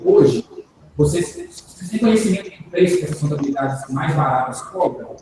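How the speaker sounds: slowed down, over enunciating; slow and clear. Shown as a demonstration. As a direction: spell each word out for a bad line. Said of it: "vou falar devagar pra você poder entender".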